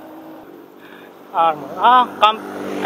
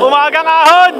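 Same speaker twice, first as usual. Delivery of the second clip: excited shout; 5 semitones higher, 6 dB louder than usual. Real, not acted. Hyped start of climb.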